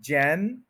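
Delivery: जैन as one drawn-out syllable. Shown as a demonstration. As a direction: sound out जैन on its own. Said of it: "four parts में ये word बोला जाता है". (जैन, अलग syllable में)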